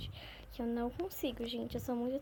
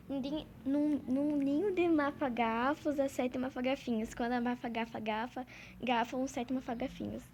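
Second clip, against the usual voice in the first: tongue twister spelled out slowly and carefully. Shown as a demonstration. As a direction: say each mafagafo word slowly so you don't trip. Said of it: "eu vou falar aqui devagar".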